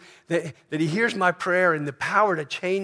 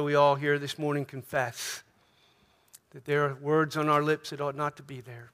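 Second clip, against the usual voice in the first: closing prayer; 2 semitones lower than usual. Acted. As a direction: pray earnestly over the congregation.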